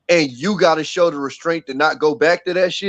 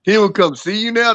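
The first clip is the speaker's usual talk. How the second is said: bad British accent, a bit higher; clumsy mock British accent; horrible British accent; 5 semitones higher than usual. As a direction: ham up a poor British accent. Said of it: "horrible British accent".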